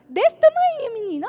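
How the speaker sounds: a sudden high, loud parental scold; scolding shout. Acted. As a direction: yell at the little boy. Parent scolding small child.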